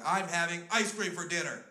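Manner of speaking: lightly voiced bratty kid; defiant little kid. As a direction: announce it like a stubborn four-year-old. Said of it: "He didn't lose that attitude".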